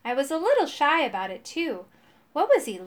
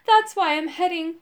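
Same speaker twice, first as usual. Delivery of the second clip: higher, louder, anxious burst; gulping dread; 6 semitones higher, 6 dB louder than usual. A narrator's reading. Frightened father points toward the forest, acted dread. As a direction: break off as if swallowing fear. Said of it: "he gulped and pointed toward the forest".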